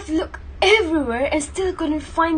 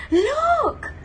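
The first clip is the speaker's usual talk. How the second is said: sharp, much higher exclamation; sudden cry; 11 semitones higher than usual. Acted. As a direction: fake out the guard. Fake distraction shout.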